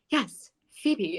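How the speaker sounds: mock British accent, imitating a deputy; bad British accent. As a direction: put on a clumsy British accent. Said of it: "that was the worst British accent ever".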